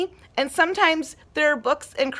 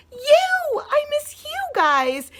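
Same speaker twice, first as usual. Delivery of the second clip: excited reveal; 12 semitones higher, slower than usual. Real, not acted. Teacher's heartfelt reveal to class.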